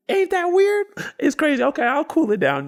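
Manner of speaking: high-pitched, carried-away exclaiming; mocking rant. Worker ignores his coworker's warning, ranting high then cooling down. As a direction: keep roasting, then ease off. Still ranting while being warned.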